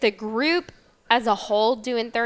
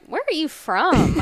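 higher, drawn-out query; imitated curious question; 6 semitones higher than usual. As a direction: ask it high and slow, as if puzzled by an accent. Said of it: "They're like".

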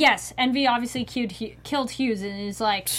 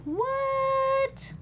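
surprised what; 13 semitones higher, 5 dB quieter than usual. Retold or imitated. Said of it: "quoting her own confusion".

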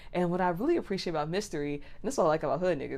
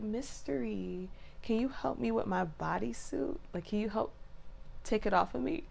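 precious princess; 3 semitones higher, 6 dB quieter than usual. Retold or imitated. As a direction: ask sweetly, like a helpless little princess. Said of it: "likes to be a princess and all precious".

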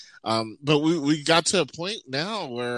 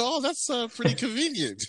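much higher, dripping sarcasm; sarcastic; 12 semitones higher than usual. Retold or imitated. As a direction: needle him sarcastically. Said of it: "I go".

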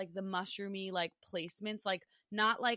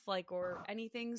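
usual speaking voice

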